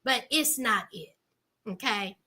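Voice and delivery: blunt brush-off. Retold or imitated. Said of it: "he said".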